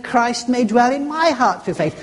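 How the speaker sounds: "my" lifted and leaned on within the verse; stress on my. Shown as a demonstration. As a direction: point the verse at yourself through "my". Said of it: "Drop yourself into the Bible verse".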